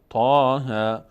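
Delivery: تا and ها said short with no stretch; short letter names. Shown as a demonstration. Teacher showing letters without madd, said short. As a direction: clip تا ها with no madd.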